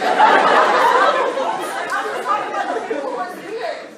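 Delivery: laughing through the words, slow; can't stop laughing while speaking; amused laugh breaking into the line. Real, not acted. Student laughing mid-speech at board.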